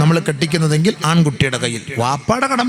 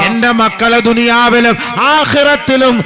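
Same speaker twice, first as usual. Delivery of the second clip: high, loud, slow impassioned sermon chant; full-force preaching; 8 semitones higher, 7 dB louder, much slower than usual. Acted. Preacher urging parents at a wedding, impassioned preaching.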